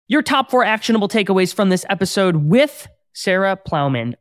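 loud, punchy countdown of takeaways; podcast recap announcer. Acted. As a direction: announce each takeaway with big, drawn-out emphasis. Host announces episode recap.

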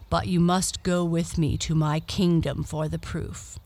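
hushed, breathy suitor; whispering. Acted. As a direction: whisper the bargain. Suitor murmurs his offer.

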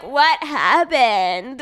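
very slow, dazed mock waking voice; groggy. Woman acting out coming to after fainting, groggy. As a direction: drag it out as if just coming to.

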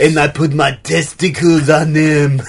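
put-on French-Austrian accent; affected accent. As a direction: artist in a muddled European accent. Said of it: "What is that accent?".

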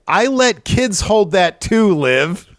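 high, slow, condescending jab; mocking Becky. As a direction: talk down to her like a bratty rival. Becky mocking Liv, retold.

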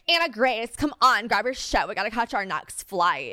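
exaggerated bossy hustling; mock impatient urging. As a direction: play a pushy friend rushing someone along. Acting out impatient friend she rejects.

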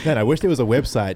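laughing while talking. Real, not acted. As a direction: chuckle through the words. Laughing through a sarcastic joke.

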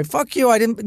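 high-pitched mock indignation; retold defiance. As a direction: protest like a wronged son. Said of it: "she started it".

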